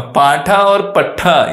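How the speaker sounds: पाठा with a long vowel, पट्ठा with a short vowel and doubled consonant; contrasting similar words. Shown as a demonstration. Teacher separating two look-alike words, पाठा and पट्ठा, slow careful contrast. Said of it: "इसमें फ़र्क है".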